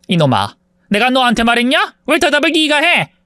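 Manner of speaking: mocking mother. A narrator's reading. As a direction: sneer at the job with contempt.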